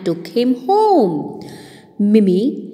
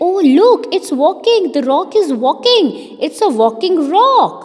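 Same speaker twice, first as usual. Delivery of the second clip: surprised bunny; 5 semitones higher than usual. Acted. Binny sees walking rock.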